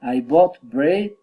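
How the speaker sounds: slow list opening, lifting "bread"; unfinished list with a lift on "bread"; rising list intonation. Shown as a demonstration. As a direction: draw it out and raise "bread". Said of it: "rising intonation".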